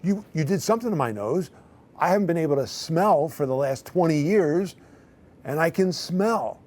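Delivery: high, insistent, emotional retelling; retold tearful outburst. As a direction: imitate someone worked up to the brink of tears. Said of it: "and she starts crying".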